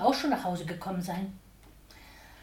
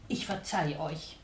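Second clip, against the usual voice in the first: through tears; 3 semitones lower, 4 dB quieter than usual. Acted. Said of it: "unter Tränen".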